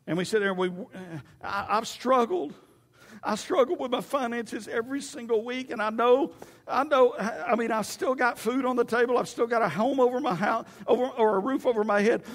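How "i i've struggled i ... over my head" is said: higher-pitched moaning complaint; mock self-pity. Believer moaning about weekly finances, mock self-pity. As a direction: imitate someone feeling sorry for themselves.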